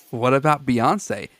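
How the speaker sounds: mild all-caps yell. Retold or imitated. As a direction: punch the opening like a shouted post, half-hearted. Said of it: "Gotta yell at us".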